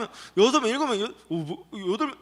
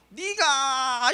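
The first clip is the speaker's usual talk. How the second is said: a very slow, drawn-out accusing "네가!"; a drawn-out angry outburst, hammed up for children; mock angry accusation; 5 semitones higher, much slower than usual. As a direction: stretch it out like pointing a finger in anger. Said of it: "이렇게 하는 것 같아요".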